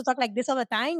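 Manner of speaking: lightly exaggerated Dominican accent; put-on Dominican accent. Mocking people who expect an accent, put-on Dominican accent. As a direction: slip into a mock Dominican accent. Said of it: "I'm supposed to have an accent".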